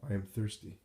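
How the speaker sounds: a dying man's thin, plaintive ask for water; plaintive plea. A narrator's reading. Dying Jesus to the crowd, plaintive thirsty plea. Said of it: "comes the plaintive voice of Jesus".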